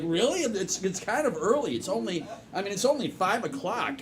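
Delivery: lightly acted bewilderment; mildly confused. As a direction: query it hesitantly, caught off guard. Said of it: "are confused".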